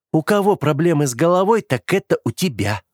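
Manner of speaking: ironic, smiling. Acted. Sister teasing her brother with an ironic smile. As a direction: smile through the jab. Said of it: "с ироничной улыбкой проговорила Оливия".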